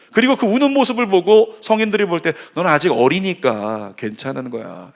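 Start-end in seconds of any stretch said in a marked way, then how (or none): 2.5-4.9 lower, indulgent reassurance; mild, acted tolerance; understanding adult. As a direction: gently excuse a small child, pitch settling down. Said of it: "라고 여긴다는 거죠".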